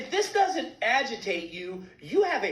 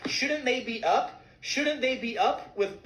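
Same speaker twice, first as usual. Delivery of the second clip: slow rhetorical question; 2 semitones higher, slower than usual. Real, not acted. Rhetorical outrage, slowed.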